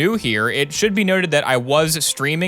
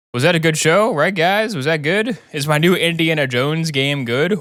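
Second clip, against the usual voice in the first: higher, eager questioning host; needy TV host off camera; 4 semitones higher than usual. Acted. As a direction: ask the crew for approval, pitched up. Show host asks the crew afterwards.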